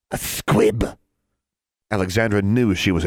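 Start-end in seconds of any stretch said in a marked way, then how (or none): 0.1-1.0 spiteful. Acted. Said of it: "her smile was cunning and spiteful".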